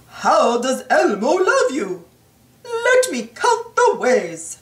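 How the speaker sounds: chirpy Elmo asking then counting. Acted. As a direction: Elmo answering his own question with glee. Elmo speaks in story.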